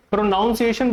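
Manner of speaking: "प्रोनाउंसिएशन" with NOUN in the second syllable; mistaken pronunciation. Shown as a demonstration. Teacher quotes the myth about this word, mispronounced. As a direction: say "प्रोनाउंसिएशन" as pro-NOUN-see-ay-shun. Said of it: "बोलने का ये जो myth है".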